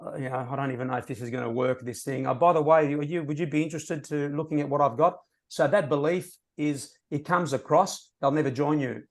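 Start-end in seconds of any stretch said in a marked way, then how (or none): 0.0-5.2 hesitant, doubting mumble; unsure prospect voice. Retold or imitated. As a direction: sound like you don't believe it. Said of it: "someone that might be there saying".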